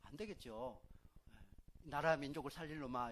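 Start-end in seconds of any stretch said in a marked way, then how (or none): 1.8-3.1 blessing shout. Shown as a demonstration. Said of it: "이렇게 해야지".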